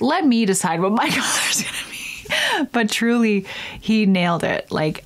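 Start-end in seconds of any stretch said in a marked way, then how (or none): 0.0-2.7 whispered laughing push-back; half-laughing sass under breath; whispered mock protest. Telling the specialist off, whispered joking protest. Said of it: "And I'm like".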